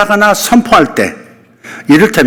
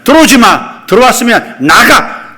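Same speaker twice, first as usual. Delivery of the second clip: high, loud order to get out; commanding the enemy out; 6 semitones higher, 3 dB louder than usual. Shown as a demonstration. Preacher ordering evil from the city gates, loud command. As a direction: drive them out with the voice. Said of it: "내쫓아야 하는 것입니다".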